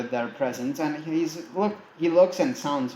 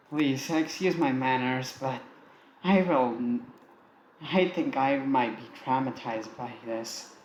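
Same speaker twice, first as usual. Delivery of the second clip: sarcastic. Acted. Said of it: "in a sarcastic voice".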